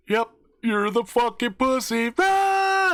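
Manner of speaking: high, loud, taunting jab ending in a yell; mocking cackle. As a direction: tease him hard, then whoop. Mocking friend, then a yell.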